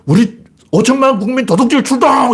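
high, rousing proclamation; acted government rallying cry; mock mobilisation order. Acting a government's open mobilisation.

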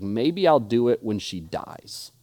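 slow, low, offhand remark; retold casual aside, pitched low. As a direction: toss it off slowly, as if it hardly matters. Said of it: "he said this so casually".

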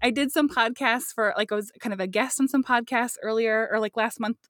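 muffled closet acoustics; recorded in a small closet; inside a closet. Real, not acted. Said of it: "speaking right now in the closet".

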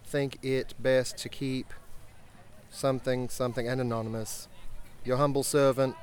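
period British officer reading a letter aloud; British accent, formal letter read to the guests. Acted. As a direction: read it out like a Royal Navy captain in a British accent. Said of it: "Read it in your best British accent".

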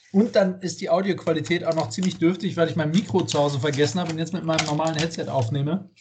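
talking through bites of dinner; eating while talking. Real, not acted. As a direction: mouth half full of food. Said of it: "während der Aufnahme Abend essen".

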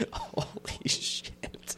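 laughing. Real, not acted. GM laughing at own scene.

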